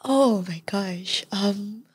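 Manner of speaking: whispered, slow at the start, reliving the fear; hushed whisper. Real, not acted. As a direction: drop to a whisper as you remember. Guest recalls how scary it was.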